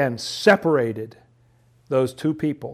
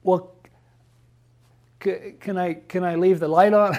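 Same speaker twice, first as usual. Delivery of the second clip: put-on a touch higher, wheedling kid; second bargain like a child; pleading child; 4 semitones higher than usual. Pastor acting a child begging for the light on, lightly high. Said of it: "No, you have to go to bed".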